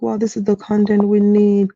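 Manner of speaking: mock commenters. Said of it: "people were like".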